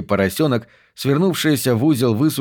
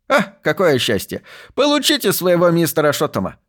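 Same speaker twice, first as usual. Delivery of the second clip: put-on higher, lively old archivist's exclamation; delighted find; 7 semitones higher than usual. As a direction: exclaim over a lucky discovery. Old archivist finds the box.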